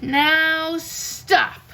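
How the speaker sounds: lightly voiced boy king giving an order; a hint of a firm little king; mild command from a boy. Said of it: "Max said".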